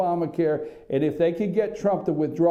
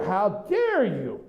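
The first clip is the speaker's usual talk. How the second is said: mock outrage; slower than usual. Mimicking the offended press elite.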